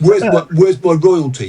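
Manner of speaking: slow, mock British kid demanding royalties; British accent. Dad mimics his son asking for royalties in a British accent. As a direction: imitate a cheeky British teenager, drawn out. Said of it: "in his very British accent".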